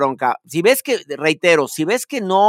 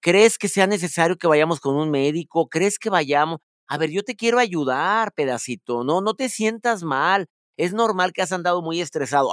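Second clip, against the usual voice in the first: tender concern. Retold or imitated. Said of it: "el café ya dice".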